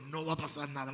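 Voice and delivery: gentle voice of God, subdued; quiet divine voice. Retold or imitated. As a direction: say it softly, settling her fear. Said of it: "escuché esa voz que le dijo".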